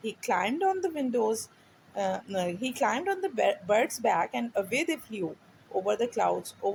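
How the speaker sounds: put-on slow, clear read-aloud for a child; story reading. A narrator's reading. Teacher reading a storybook to a child, slow and clear. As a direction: read each word slowly so the child can follow.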